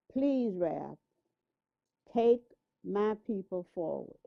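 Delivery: normal talking voice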